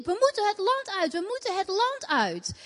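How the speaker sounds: retelling her own frantic cry to a friend; retold shouting. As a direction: cry it out, pitch rising as if pleading. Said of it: "En ik roep en ik riep".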